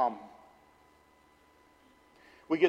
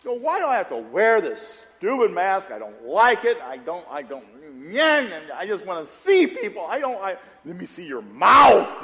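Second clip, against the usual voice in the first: retold annoyance; 5 dB louder than usual. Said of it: "I was mad".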